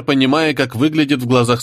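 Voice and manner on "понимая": ordinary delivery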